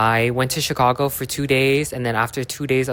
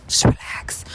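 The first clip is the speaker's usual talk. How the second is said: whispering. Pretend. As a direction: hush it like a calming secret. Soothing whisper, intimate moment.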